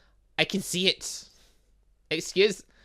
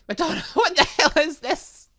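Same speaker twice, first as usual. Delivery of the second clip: laughing shock; 12 semitones higher, 6 dB louder than usual. Acted. Jin reading Madonna's draft, laughing out loud in disbelief.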